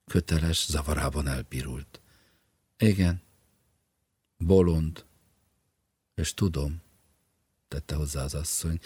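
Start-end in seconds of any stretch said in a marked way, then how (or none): 2.8-6.8 louder, scornful insistence; wife's louder, scornful confirmation. Acted. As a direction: spit out the word with contempt. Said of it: "Megvetés és hideg gúny".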